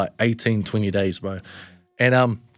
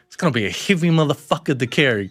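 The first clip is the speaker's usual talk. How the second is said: higher, louder, breaking into laughter; laughing disbelief; 7 semitones higher, 5 dB louder than usual. Retold or imitated. Joking with mates in the car, laughing disbelief. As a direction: crack up while telling the dark joke. Dark joke among grieving mates.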